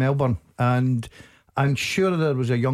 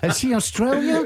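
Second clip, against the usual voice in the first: a quick, hammed-up Australian twang, pitched higher; mock Australian accent; 9 semitones higher than usual. Pundit badly imitating an Australian, in a hammed-up Australian accent. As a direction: toss it off in a bad Australian accent. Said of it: "That was an accent".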